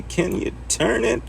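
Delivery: high, slow, sing-song ask; high drawn-out repeat. Pretend. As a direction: stretch the question up high and slow. Repeats the question in a put-on voice.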